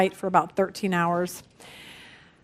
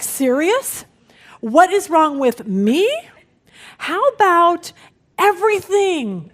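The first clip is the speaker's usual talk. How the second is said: exasperated retort; 4 semitones higher, 3 dB louder than usual. Retold or imitated. Wife snapping back at her husband, mock exasperation. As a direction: throw the question back at him in disbelief.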